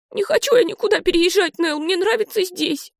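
put-on a sad kid into the pillow; sulky tearful girl. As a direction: Olive sobbing to her sister, high and sulky. Olive crying on the bed.

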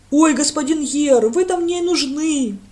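loud, slow, high-pitched rustic call; eager village lad. A narrator's reading. Lad runs up to Brent, eager and slow. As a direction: call out to the priest, drawn out.

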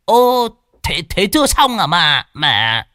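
high startled cry; cry of alarm. Acted. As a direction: yelp in dismay at the unfinished job. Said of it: "Lão kêu lên".

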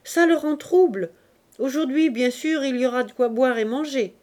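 easy laundress banter; lightly voiced Clémence. Clémence jokes to the workers, lightly voiced. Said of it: "dit la grande Clémence".

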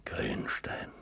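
"Grünstein" whispered low and soft, no voice; whispered name. Acted. The old man repeats the name to himself, whispering. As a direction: let "Grünstein" fade into a whisper of memory.

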